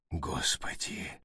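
hushed, drawn-out gasp of disbelief; breathed-out exclamation. A narrator's reading. Arky reacts to the sergeant's orders, breathing it out. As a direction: exhale it slowly, voiceless and soft. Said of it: "выдохнул Арки".

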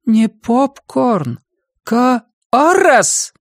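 high, slow sharp rebuke; sharp scolding. Acted. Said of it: "Резкий голос Джулии".

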